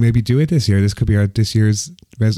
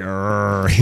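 imitated creature noise; 2 semitones lower, 4 dB quieter than usual. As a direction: groan like a wigged alien. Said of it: "it's like".

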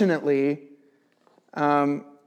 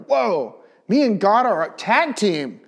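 higher, louder, laughing delight; excited whoa; 5 semitones higher, 4 dB louder, slower than usual. Retold or imitated. Believer voicing his thrill at God's help, laughing excitement. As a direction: gush like you just teamed up with God.

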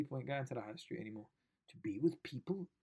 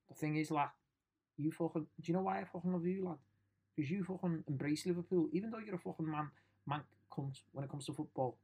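Scouse fan. Acted. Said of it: "That was my imaginary, um, Scouse fan".

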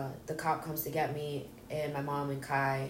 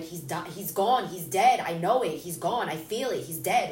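loud, distraught insistence; reliving panic, hammering each short statement; retold freaking out; 6 dB louder than usual. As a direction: insist on it, upset and raised. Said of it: "he heard me freaking out".

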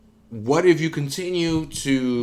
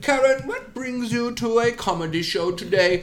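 higher, lilting TV host voice; mock documentary host; 5 semitones higher than usual. Host introducing a Karen at the Laugh Factory, higher mock announcer.

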